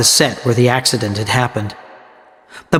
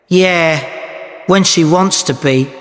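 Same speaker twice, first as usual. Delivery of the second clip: a touch of irritation, higher pitched; mildly angry; 4 semitones higher, slower than usual. A narrator's reading. Woman doubting her friend is well protected, mildly angry. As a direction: answer with understated anger. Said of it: "Arabella replied angrily".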